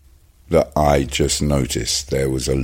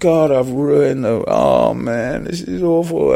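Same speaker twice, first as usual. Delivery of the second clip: mildly anguished, higher-pitched self-reproach; retold dismay; 9 semitones higher, slower than usual. Actor back at hotel feeling terrible, retold dismay. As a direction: replay the sinking regret, pitch raised. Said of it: "I felt terrible".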